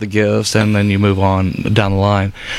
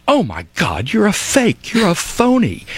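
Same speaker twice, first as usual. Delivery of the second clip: mock child scream; 11 semitones higher than usual. Little girl unmasking the Santa at the tree lot, high mock shriek. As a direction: imitate a kid yelling she caught a fake. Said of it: "and she screamed".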